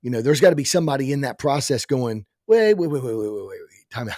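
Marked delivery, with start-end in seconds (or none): 2.5-4.2 urgent mock halt. Imitating someone halting the process.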